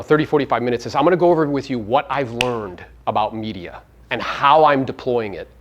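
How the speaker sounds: ordinary talk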